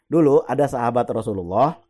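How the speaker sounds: ordinary talk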